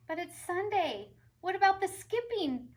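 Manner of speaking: put-on high, loud kid's complaint; little brother protesting. A narrator's reading. Brother calls after Tilly, high and loud. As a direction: wail after his sister. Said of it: "her brother called".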